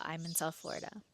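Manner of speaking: breathy whispered read of his profile; secretive whisper; whispering the message. Retold or imitated. Reading his message, hushed.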